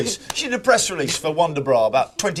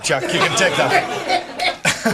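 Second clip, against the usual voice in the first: put-on Welsh lass accent; much slower than usual. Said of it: "us Welsh lasses".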